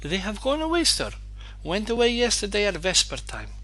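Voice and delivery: put-on high, kindly old woman's voice; cordial old housekeeper. A narrator's reading. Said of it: "said Marva Kuzminichna cordially".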